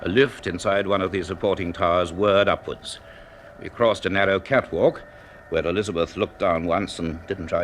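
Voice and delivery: measured storyteller voice, unhurried and even; story narration. A narrator's reading. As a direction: read it like the narrator of a radio serial.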